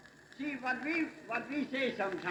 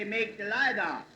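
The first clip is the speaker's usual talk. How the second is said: slow, louder, put-on Dutch accent on "Make the light out"; Dutchified wrong phrasing; 3 semitones higher, 5 dB louder than usual. Shown as a demonstration. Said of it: "But that ain't right".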